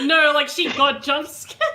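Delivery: laughing through the words. Real, not acted. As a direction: giggle while explaining. GM laughs describing jump scare.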